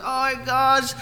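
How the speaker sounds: high-pitched mock-upset child; imitated bawling son. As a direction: act out a little boy wailing about the rules. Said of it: "He's bawling his eyes out".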